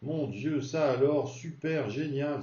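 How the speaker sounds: admiring exclamation. Shown as a demonstration. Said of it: "mais on peut dire".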